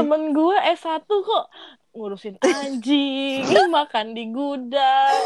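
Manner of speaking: slow, laughing through the words; laughing while talking. Real, not acted. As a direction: crack up mid-sentence.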